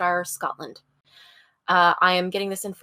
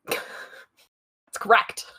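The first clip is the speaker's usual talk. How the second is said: breathless laughing whisper; much slower than usual. Real, not acted. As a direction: giggle through the words.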